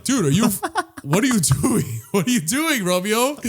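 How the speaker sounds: giggling through a puzzled question; laughing while asking a puppy what it's doing. Retold or imitated. Owner laughing at his squirming puppy, amused question. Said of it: "And I'm like".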